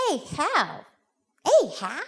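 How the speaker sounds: lightly voiced unsure little boy; little boy trying. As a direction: try the new call as a question. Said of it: "he looks at his mother and he says".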